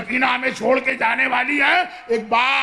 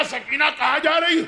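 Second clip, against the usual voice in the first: Zainab startled, pitch higher; alarmed question; 4 semitones higher than usual. Acted. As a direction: call after the child in alarm. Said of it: "زینب نے گھبرا کے کہا". (زینب کا گھبرا کر پوچھنا)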